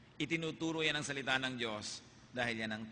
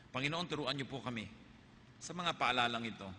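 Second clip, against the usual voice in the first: closing prayer. Acted. Pastor closes with prayer.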